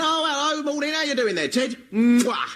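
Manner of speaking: friendly builder. Retold or imitated. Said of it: "blokes on building sites going".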